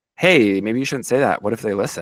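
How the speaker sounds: normal talking voice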